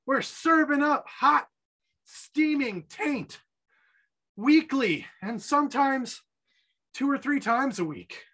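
high, slow mock-grand podcast intro; lofty, drawn-out boast; hammed-up announcer.

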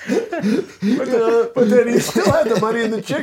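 cracking up over a plot hole; laughing. Real, not acted.

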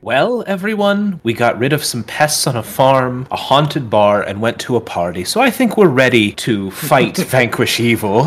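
heavy sarcastic pep talk; dripping with sarcasm. Acted. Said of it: "dripping with sarcasm".

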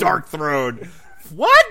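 sudden high, loud, hammed-up "What?"; mock fan squealing in disbelief. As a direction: act outraged that it's on the list.

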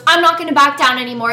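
half-hearted imitation of her screaming back; mild mock yell. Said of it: "like, screaming".

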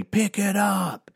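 high, slow drawn-out mock coach voice; smoking coach sneering at runners; gruff coach order. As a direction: play the lazy coach barking between drags. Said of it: "he would say".

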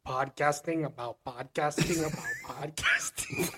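slow mock Korean accent with laughter; horrible Korean accent. Teasing a friend about podcasting, horrible Korean accent. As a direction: imitate a bad Korean accent, drawn out. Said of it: "In his horrible Korean accent".

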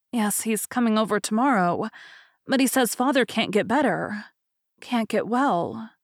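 a touch of sadness, slowing at the end; understated grief over her father; holding back tears. Acted. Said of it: "The girl's lip trembled".

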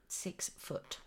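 whispered "Six foot" as an awed aside; mock-impressed whispered "Six foot"; hushed aside. Shown as a demonstration.

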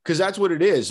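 laughing while talking; real laugh. Real, not acted. Host laughing along with the guest. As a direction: laugh through the words.

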